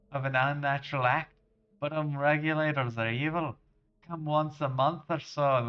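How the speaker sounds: hearty generic Scottish lad-speak; terrible Scottish accent. Acted. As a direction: put on a bad Scottish accent. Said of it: "accent for this random character".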